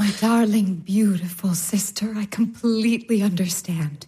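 a gentle, hushed reassurance; tender whisper. Acted. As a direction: soothe her in a whisper. Olga comforting her sister.

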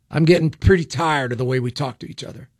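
slight Southern accent. Real, not acted. Radio host tired of political talk, accidental Southern accent. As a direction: let a little Southern accent slip in. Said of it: "adopted some kind of Southern accent".

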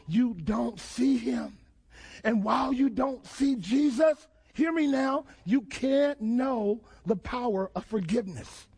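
ordinary talk, nothing marked

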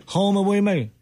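mumbled as if without teeth; toothless voice. Pretend. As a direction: lips over gums, slurred words. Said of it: "You're talking like you have no teeth".

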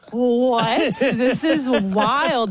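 slow, laughing disbelief; amazed disbelief. Retold or imitated. Mother retelling her shock at school drop-off, slow and laughing. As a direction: marvel at it, drawn out. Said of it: "And I'm like".

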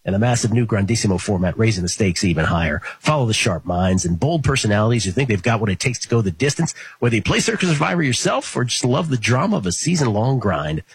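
upbeat promo read; network promo voice. Acted. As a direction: sell the show like a network promo. Sports betting promo read.

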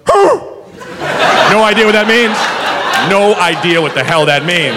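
slow, dazed put-on drunk voice; drunk denial. Drunk customer refuses to be cut off, slow dazed voice. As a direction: play dumb like a drunk who won't be cut off. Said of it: "which was".

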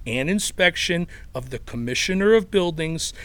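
put-on a light Chicago accent reading legal text. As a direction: read the code like a Chicago regular guy, lightly. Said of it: "in that Chicago accent".

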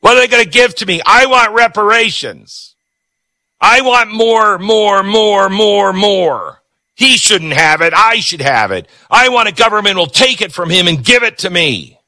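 high, whiny greedy voice, mocking; mocking entitled whiner. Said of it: "Everybody right now is like".

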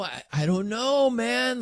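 Patty impression. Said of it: "I'll try to do it again".

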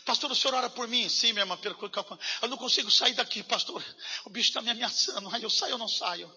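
a scared believer begging for prayer; lightly voiced frightened caller.

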